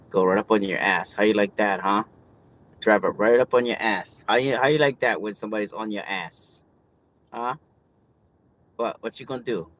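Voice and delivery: loud taunting at another driver; angry tailgating taunts; road rage. Real, not acted. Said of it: "Road rage again".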